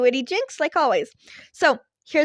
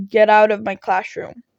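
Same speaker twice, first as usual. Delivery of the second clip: blunt order; 8 dB louder than usual. A narrator's reading. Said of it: "he said simply".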